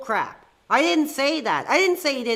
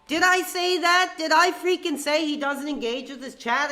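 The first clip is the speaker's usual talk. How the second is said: indignant outburst; 5 semitones higher than usual. Real, not acted. Streamer to chat, denying the caller's claim, outraged. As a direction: fire back at the accusation in real disbelief.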